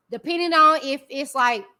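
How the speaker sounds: talking with food in mouth; words round a bite of food; mouth full. Real, not acted. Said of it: "let me stop talking with my mouth full".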